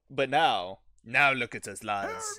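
rally the raiders like a warlord. Acted. Rallying speech to his men.

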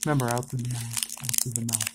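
hushed, low breathing reminder; quiet and low; soft coaching. Real, not acted. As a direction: murmur it softly, like coaching someone's breathing. Coaching breathing during pack opening.

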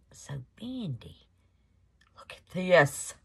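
a puzzled whisper; whispered aside. Real, not acted. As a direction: whisper it to yourself.

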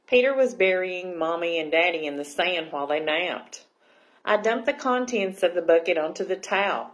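lively, projected picture-book reading; story narration. A narrator's reading. Librarian reading Aqualicious to children, animated storytelling. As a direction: read it out clearly to young listeners.

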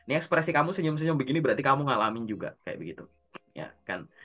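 usual speaking voice

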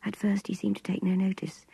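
ordinary delivery, nothing marked

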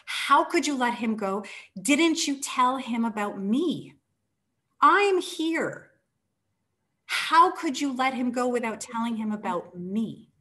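high, loud, anguished accusation; retold fury, peaking on I'm here; furious pleading. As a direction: hurl it at him, outraged. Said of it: "she is railing. She is furious".

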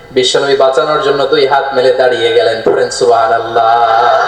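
sing-song preacher's narration, falling low at the close; melodic sermon storytelling. Acted. Preacher telling of the Prophet shielding Aisha, melodic narration. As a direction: chant the story, drawing out the line endings.

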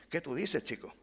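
quick put-on Caribbean accent; Caribbean Spanish accent. Shown as a demonstration. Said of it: "adoptar un cálido acento caribeño". (acento caribeño cálido e imitado)

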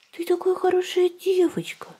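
high breathy whispered praise; squeaky praising a dog. Real, not acted.

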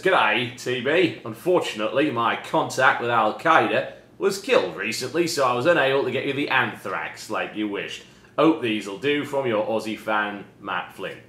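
put-on reading aloud in a poor Aussie accent; bad Australian accent. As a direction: read it like a badly faked Australian. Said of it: "That is the worst Australian accent".

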